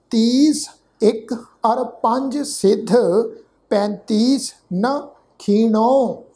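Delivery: slow, measured verse reading; scripture recitation. Shown as a demonstration. Teacher reciting Gurbani for the congregation, slow and measured. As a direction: recite word by word with held vowels.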